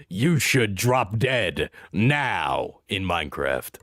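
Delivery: low, slow catty sneer; mean girl voice. Pretend. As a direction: drip it with fake sweetness. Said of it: "Straight up Regina George energy".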